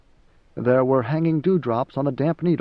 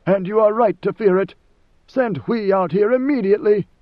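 threatening; 6 semitones higher, 4 dB louder than usual. Acted. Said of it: "a deep threat in every word".

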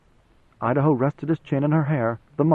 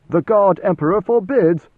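louder, sharp warning; stern forbidding; 5 semitones higher, 6 dB louder than usual. A narrator's reading. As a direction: throw up a wall with your voice. Duncan forbids her approach.

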